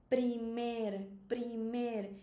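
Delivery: "primer" slowly, pri-MER with final R sounded; careful model pronunciation. Shown as a demonstration. Teacher drills a difficult word, careful pronunciation. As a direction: spell out "primer" by ear, stressing MER. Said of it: "tem que entender que é primer".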